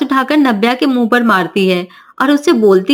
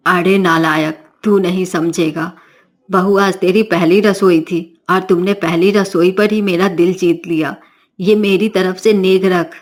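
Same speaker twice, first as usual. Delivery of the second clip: mother-in-law; 4 semitones lower than usual. Acted. Mother-in-law scolds, then gives gift.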